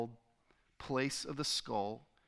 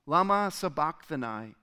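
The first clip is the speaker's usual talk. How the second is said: raised reader's cry; understated cry of anguish, starting high; 4 semitones higher, 3 dB louder than usual. A narrator's reading. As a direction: lift the voice, building to a louder last phrase. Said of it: "cried out with a loud voice".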